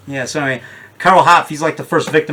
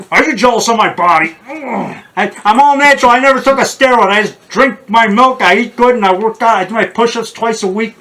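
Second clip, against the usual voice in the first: boastful muscleman; 5 semitones higher than usual. Acted. Bodybuilder show-off bit.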